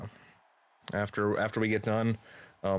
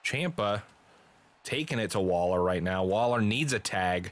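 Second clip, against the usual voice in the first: play-by-play; slower than usual. Acted. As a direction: leap up in pitch at the shock, then resume the call. Live wrestling commentary.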